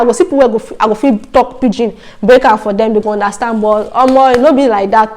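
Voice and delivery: easy Nigerian Pidgin delivery, same own voice; speaking Nigerian Pidgin. Shown as a demonstration. Narrator shows how she planned to talk Pidgin in the north, in Nigerian Pidgin. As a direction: slip into Nigerian Pidgin as if chatting at the market. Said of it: "I feel speak Pidgin".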